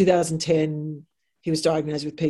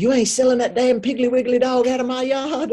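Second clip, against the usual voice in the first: put-on Southern US accent; 8 semitones higher, 5 dB louder than usual. Boss refuses to let her sell the dog, in Southern accent. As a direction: do the angry Southern boss, North Carolina accent. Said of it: "you are so good at the accent".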